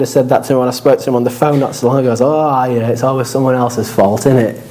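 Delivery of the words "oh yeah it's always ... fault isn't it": a light hint of a Yorkshire granddad, teasing; lightly voiced Yorkshire lilt, dry and knowing; Yorkshire accent. Preacher quoting his granddad on the phone, in a mild Yorkshire accent. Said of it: "a bit of a Yorkshire accent coming out there".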